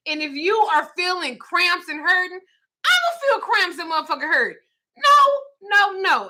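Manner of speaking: high, laughing mock warning; giggling don't-touch-me rant. Real, not acted. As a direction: warn them off through laughter. Ranting about period touching.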